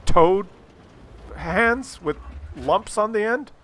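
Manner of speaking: light mock of a teen girl; imitating the girl. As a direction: chatter it like a carefree girl.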